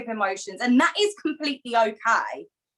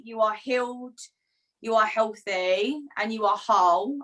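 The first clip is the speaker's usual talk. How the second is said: slow affirmation. Real, not acted. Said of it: "set the intention for my beautiful soul sister".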